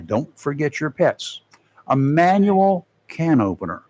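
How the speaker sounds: measured announcer read, list items set apart; advising listeners, emphatic on key items; radio preparedness tips. Acted. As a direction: read out a storm checklist on air.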